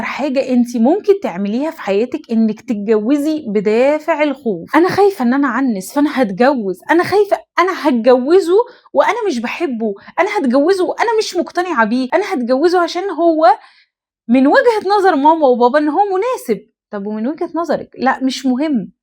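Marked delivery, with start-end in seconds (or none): 4.8-16.7 higher, anxious voicing of a scared bride-to-be; anxious inner voice. Woman voicing a frightened girl rushing into marriage, higher and anxious. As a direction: act out her worry of never marrying, pitched up.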